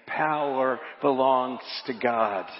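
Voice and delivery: slow, deliberate lead for a congregation; leading group repetition. Shown as a demonstration. Preacher has congregation repeat after him, slow and deliberate. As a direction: stretch it out so everyone can join. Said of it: "say that with me".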